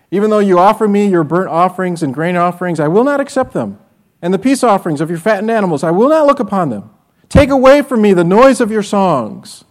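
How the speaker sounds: rising to a loud, forceful proclamation; booming scripture reading. Acted. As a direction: declare it as God's angry word. God's words read with force.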